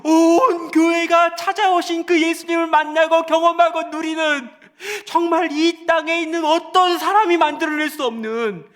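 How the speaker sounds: high, loud preaching cry; preacher crying out to the congregation; fervent preaching. Acted. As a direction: preach it with full fervour. Preaching at full force.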